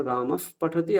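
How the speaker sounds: রামফ with a slow breathed f released before পঠতি; half ফ. Shown as a demonstration. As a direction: let air escape through the lips ending রামফ. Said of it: "এই দুটো জিনিস বোঝা গেল". (অর্ধ ফকার উচ্চারণ)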